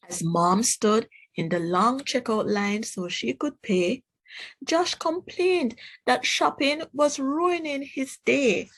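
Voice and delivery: put-on gentle storybook read for kids; reading to children. Teacher reading a picture book to the class, gentle storybook voice. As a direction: tell it like a picture book at circle time.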